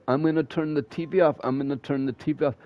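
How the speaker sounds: lightly voiced whiny mom; a hint of nagging threats. Mom nagging kids at seven in the morning, light whiny voice. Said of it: "She'd be like".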